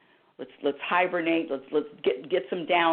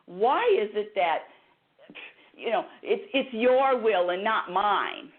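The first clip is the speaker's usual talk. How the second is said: demanding plea; 4 semitones higher than usual. Retold or imitated. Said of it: "wasn't really nice with my demand".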